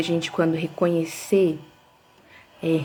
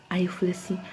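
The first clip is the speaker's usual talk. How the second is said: whispered aside; 5 dB quieter, faster than usual. Real, not acted. Aside before exclaiming.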